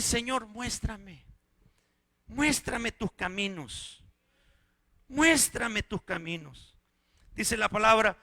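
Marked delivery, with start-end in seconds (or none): 0.0-6.8 slow prayer. Acted.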